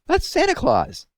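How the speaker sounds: very high slow excited shriek. A narrator's reading. Owlet spotting Santa Claus, high thrilled shriek. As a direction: scream with joy at the sight. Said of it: "shrieked Plop".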